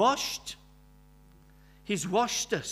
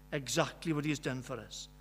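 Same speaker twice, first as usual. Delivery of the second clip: softer echo; 4 semitones lower, 6 dB quieter than usual. Real, not acted. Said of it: "are exactly what he's done for us".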